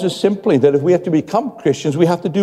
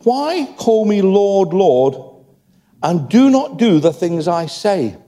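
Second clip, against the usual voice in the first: voicing Jesus; 2 semitones higher, slower than usual. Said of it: "Jesus says these words".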